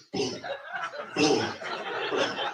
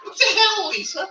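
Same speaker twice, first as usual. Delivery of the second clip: amused surprise; 13 semitones higher than usual. Real, not acted. Reacting to funny condolence message.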